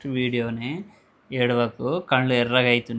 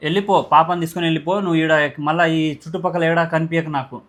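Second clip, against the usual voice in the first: pretend angry order; 4 dB louder than usual. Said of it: "just ఇది prank ఇది".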